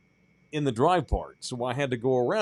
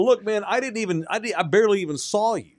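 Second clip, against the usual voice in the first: defensive pleading; 8 semitones higher than usual. Retold or imitated. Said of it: "And I go".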